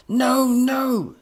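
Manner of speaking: high, loud wail of dismay; anguished cry. A narrator's reading. Professor sees leather seats ripped, anguished wail.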